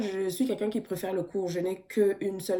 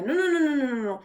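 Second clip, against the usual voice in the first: emphatic no; 7 semitones higher, 3 dB louder than usual. Real, not acted. Rejecting the idea of yielding.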